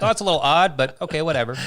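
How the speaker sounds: high, amused "oh well, whatever"; shrugging indifference. Retold or imitated. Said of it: "it's just more like".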